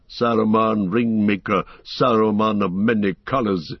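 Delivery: lightly voiced proud wizard, scornful; a hint of a cold, mocking wizard; haughty Saruman.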